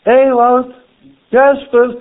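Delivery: high, drawn-out name calls; calling out. Acted. Preacher shows God still calling people, calling out. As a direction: call each person by name. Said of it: "Hij roept nog steeds".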